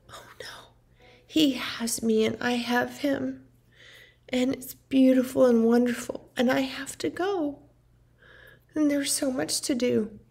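lightly imitated mom, mostly whispered; mom's sing-song voice. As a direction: hush it the way she said it. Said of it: "exactly what she said and how she said it".

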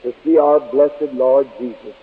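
earnest congregational prayer in his own voice. Acted. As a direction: pray to the Father for the congregation.

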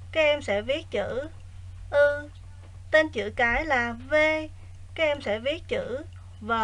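quiet, even lesson reading; soft teacher voice. Acted. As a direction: read the exercise softly and evenly. Quiet recorded exercise reading.

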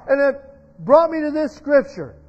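emphatic preacher quoting scripture, easing at the end; fervent sermon delivery; impassioned preaching. Real, not acted. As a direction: preach the verse with fervor.

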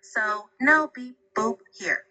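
measured, even robot-like delivery; robotic voice. Shown as a demonstration. Assistant answering a request for a robotic voice, lightly robotic. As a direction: talk a little like a robot. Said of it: "can you speak with a robotic voice".

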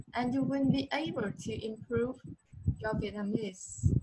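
"will" lifted on a rise, "your Vietnamese" clear; sentence stress demo. Shown as a demonstration. Teacher shows her student where the stress goes. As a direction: lift "will", then land "your Vietnamese". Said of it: "Cô nhấn trọng âm cho con này".

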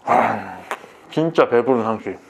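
talking while chewing; swallowing last bite; mouth full. Real, not acted. Seen 5: cheeks puffed, still chewing last big burger bite while wiping hands.

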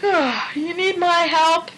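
slow surprised question in a put-on voice; sudden alarm. A narrator's reading. Richard jolted awake, surprised and slow. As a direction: snap awake.

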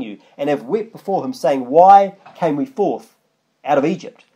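measured Bible reading; scripture reading. Acted. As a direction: read the verse out with weight. Reads scripture aloud.

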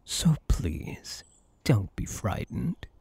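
gentle whispered plea; soothing whisper. Acted. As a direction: whisper to calm them. Calming frightened human.

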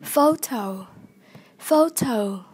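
"Photo" stressed on PHO; weight on PHO in "Photo", falling after; stress on first syllable. Shown as a demonstration. Teacher modelling vocabulary for learners, "Photo" stressed on PHO. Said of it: "nhấn âm một".

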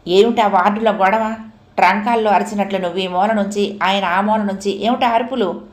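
a mildly angry doctor scolding; doctor scolding the noisy ward, a touch of anger; snapping angrily. Acted. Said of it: "కస్సుమన్నాడు". (కొద్దిగా కోపంగా కసురుతూ)

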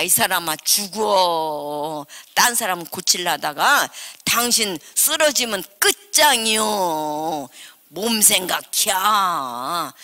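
slow, lightly voiced scolding husband; a hint of the worried elder chiding her; imitating her husband. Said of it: "우리 장로님이 그렇게 하다".

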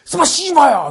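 high, loud burst of fake Russian; mock Russian outburst. Russia telling Japan off, mock angry shout. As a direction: explode like a comic Russian curse. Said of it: "이러면서 얘기를 했대요".

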